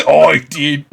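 put-on short, hammy British-accented reply; Kit Harington. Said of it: "Kit Harington impersonation territory".

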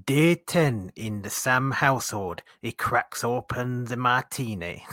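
slow, hammy Geordie narrator; mock Geordie voiceover, drawn out. Narrating day ten of Sam's dry January, mock Geordie accent. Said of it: "That's my Geordie".

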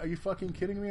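can't believe what he hears; outraged. Retold or imitated. Facing the German captain's ruling, incredulous.

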